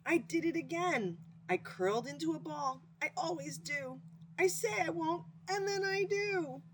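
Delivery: high, whiny hedgehog near tears; upset hedgehog. Acted. Frightened hedgehog confessing to his friend, high and tearful. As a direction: whimper it out high like a sorry hedgehog.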